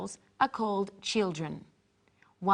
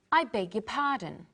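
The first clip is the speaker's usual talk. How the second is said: formal apology. Shown as a demonstration. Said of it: "This is more formal".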